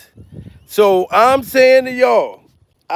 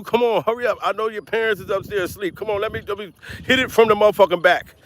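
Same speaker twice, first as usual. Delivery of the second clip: quiet and fast, a hushed rush; urging boyfriend; 3 semitones lower, 4 dB quieter, much faster than usual. Retold or imitated. Boyfriend pressuring girlfriend with parents asleep upstairs, hushed and rushed. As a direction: hurry her along quietly so the parents won't wake. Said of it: "Your man ain't ever asked you".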